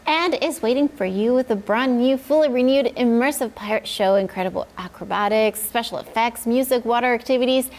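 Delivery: upbeat commercial announcer read. Acted. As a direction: sell it like a radio spot. Sponsor ad read.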